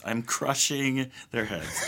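laughing. Pretend. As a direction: chuckle it out slowly.

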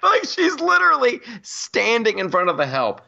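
high, laughing disbelief. Real, not acted. Laughing about the mayor standing before food, high. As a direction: laugh through the line.

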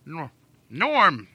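put-on slow rambling old man. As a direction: ramble like a grandpa. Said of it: "Stop talking like an old man".

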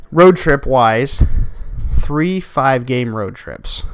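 slow, winded, heavy breathing; pausing to catch his breath. Real, not acted. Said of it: "I apologize for the breathing".

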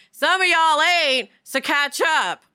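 cheeky mock quote, a touch of sass; lightly sassy paraphrase; sassy aside. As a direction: tease the slow ones playfully. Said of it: "implying to me, like".

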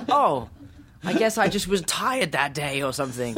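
put-on slipping back into a British accent with a laugh; laughing at his own accent slip; mock British accent. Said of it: "forgot to do an American accent".

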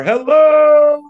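high squeaky newborn hello; baby voice. Pretend. Baby's first words voiced.

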